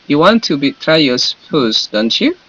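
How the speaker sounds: "You want to betray your spouse" falling, then "don't you" rising; question-tag intonation. Shown as a demonstration. Teacher models the tag question for students, "don't you" rising. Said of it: "intonasinya seperti ini".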